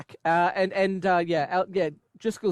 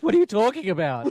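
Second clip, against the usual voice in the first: mock disbelief; 3 semitones higher, 4 dB louder, faster than usual. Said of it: "they were like".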